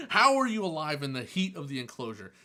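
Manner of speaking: loud comic rant at a pest; mock-exasperated disbelief. Keeper questioning the cricket in the hot enclosure, mock-exasperated. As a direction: demand an answer in exaggerated bafflement.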